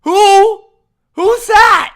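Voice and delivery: shouted, high-pitched fake confusion; mock disbelief. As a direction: blurt it out as if you've never heard the name. Feigning not knowing the player.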